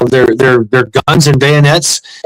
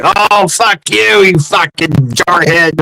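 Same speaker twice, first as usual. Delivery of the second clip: slow, drawn-out ribbing insult; old veteran ribbing a young Marine, slow; mock old vet; 4 semitones higher, slower than usual. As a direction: tease the Marine slowly, pitch lifted on Oh. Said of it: "they're like".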